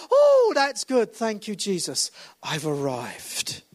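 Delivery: slow, self-satisfied mock churchgoer; smug churchgoer. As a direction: lightly mimic a complacent Christian settling in. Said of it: "they ... go".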